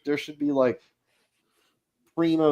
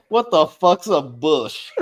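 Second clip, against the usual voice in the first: laughing mock question; 3 semitones higher than usual. Game master imitating the player, laughing. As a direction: tease the player's confusion, cracking up. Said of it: "you're like".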